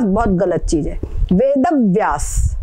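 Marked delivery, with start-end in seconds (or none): 1.3-2.6 वेद व्यास with a full द leaning into व्यास, slowly; correct recitation. Shown as a demonstration. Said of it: "वेद व्यास बोलना पड़ेगा".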